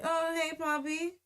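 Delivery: lightly lilted, casual retold greeting; calm. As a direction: imitate an unfazed friend saying hello. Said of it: "she said it so calmly".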